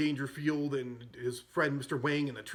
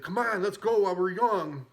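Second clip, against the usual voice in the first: louder, higher half-joking hurry-up call; mock impatient heckle; 5 semitones higher, 5 dB louder than usual. Impatient golfer heckling slow player.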